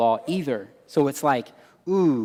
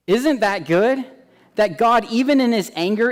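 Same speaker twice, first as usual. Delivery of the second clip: higher and louder, full of wonder; excited marvel; 7 semitones higher, 5 dB louder than usual. Real, not acted. Preacher marvelling to the congregation, excited and higher. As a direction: lift it up in delighted amazement.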